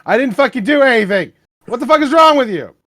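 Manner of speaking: loud, high-pitched outburst; yelled indignant denial, voice shooting up; screaming. A narrator's reading. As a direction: read it out as a full screaming protest. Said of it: "started screaming".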